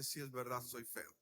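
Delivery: low, very quiet, fading away; retold humbled confession, sinking in pitch and volume; downcast admission. Rey Mesa bows his head and admits it to God, downcast. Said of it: "él bajó la cara y le dice".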